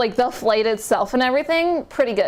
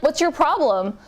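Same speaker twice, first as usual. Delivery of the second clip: retold sincere question; 3 semitones higher than usual. Airport helper earnestly asking a lost traveler, retold sincere question. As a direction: mildly imitate an earnest, friendly question. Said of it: "the most sincere voice".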